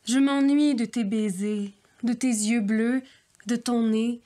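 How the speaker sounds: tender, overwrought poetry reading; hammed-up lovesick verse; mock poem recital. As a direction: read it like a lovesick poet pining.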